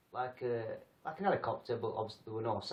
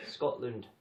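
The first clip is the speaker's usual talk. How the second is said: a weak mock Scottish accent on Scotland; half-hearted Scottish burr; bad Scottish accent. Shown as a demonstration. Trying his Scottish accent once more, badly. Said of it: "That was even worse".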